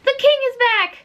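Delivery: mock announcement. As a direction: cry it out like a herald, overplayed. Mock dramatic reading of fanfic.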